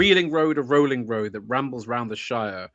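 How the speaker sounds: rolling, rhythmic ballad recital; poem recital. Acted. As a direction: let the verse swing along by heart. Recites Chesterton from memory.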